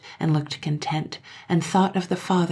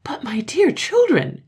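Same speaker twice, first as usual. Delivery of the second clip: high breathless astonished whisper; 10 semitones higher, 6 dB louder than usual. Acted. Mother astonished at her children, high whisper. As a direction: gasp it out in disbelief. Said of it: "in astonishment".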